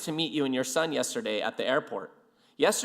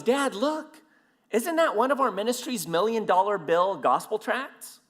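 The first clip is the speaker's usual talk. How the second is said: higher-pitched, eager question; lightly voiced eager teenager; excited son; 6 semitones higher than usual. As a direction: imitate an excited kid pointing something out. Son excitedly spotting tracts, retold.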